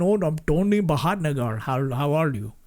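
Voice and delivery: lightly voiced Indian-accented robber; Tony calmly tells the teller to bag the money; Tony's Indian accent. Shown as a demonstration. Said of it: "when I put the mask on".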